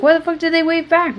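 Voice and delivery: imitating her own annoyed driver self; mock angry rant. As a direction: act out getting mad at drivers who wave back. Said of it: "'cause I get mad".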